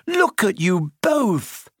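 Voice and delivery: high, drawn-out shriek; alarmed shriek. A narrator's reading. Hermione to two boys caught by plant, shrieking. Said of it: "shrieked Hermione".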